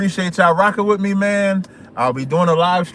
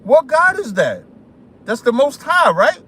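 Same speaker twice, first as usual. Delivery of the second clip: put-on African accent; 7 semitones higher than usual. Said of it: "when I do that African accent".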